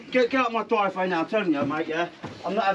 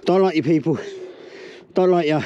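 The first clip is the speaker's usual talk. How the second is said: louder, spat-out contempt; hostile shout; 5 semitones lower, 5 dB louder than usual. Real, not acted. Owner telling the bailiffs he hates them, hostile shout. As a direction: yell your dislike at them.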